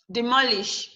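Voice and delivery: "demolish" stressed on its middle syllable. Shown as a demonstration. Teacher telling students where stress comes from, "demolish" stressed on MO. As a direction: lean on MO in "demolish". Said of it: "Your stress should come from the M O".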